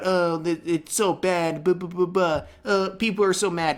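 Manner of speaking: mildly whiny mocking imitation; mock whining. Narrator mocking Ludwig's complaints about backlash, mock whining. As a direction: run through the complaints in a lightly mocking moan. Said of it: "whining and moaning about".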